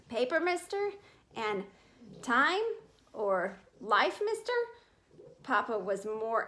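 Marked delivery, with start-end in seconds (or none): 0.1-0.9 higher, calling out to passing commuters; newsboy's shout. Acted. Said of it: "in his shouts of". 2.2-2.6 higher, calling out to passing commuters; newsboy's shout. Acted. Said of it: "in his shouts of". 3.8-4.5 higher, calling out to passing commuters; newsboy's shout. Acted. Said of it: "in his shouts of".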